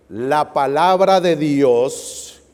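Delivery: very slow, stretched words for the crowd to finish; slow cue, inviting the congregation to complete the verse; drawn-out prompt. Shown as a demonstration. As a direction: drag out "La palabra de Dios" so they join in. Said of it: "Ayúdenme, ¿qué dice?".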